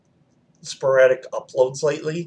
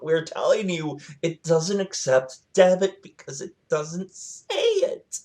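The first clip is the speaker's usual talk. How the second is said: exasperated insistence; 5 semitones higher than usual. Retold or imitated. Family arguing with her at the pump, exasperated insistence. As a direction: spell it out to someone not listening.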